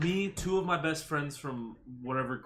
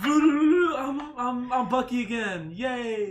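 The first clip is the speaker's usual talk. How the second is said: Bucky voice; 9 semitones higher, 5 dB louder, much slower than usual. Pretend. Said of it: "You sound, like, no different".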